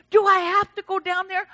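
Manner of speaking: high-pitched whiny objection; mock reluctance. Churchgoer asked to come forward, mock reluctant. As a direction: imitate a reluctant churchgoer balking.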